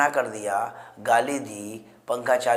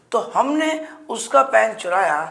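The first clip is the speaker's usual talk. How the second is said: हमने lifted high at the start; re-read to the class, हमने raised; stressed repeat; 8 semitones higher than usual. Shown as a demonstration. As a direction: stress हमने to open the sentence. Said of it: "teacher repeats the sentence".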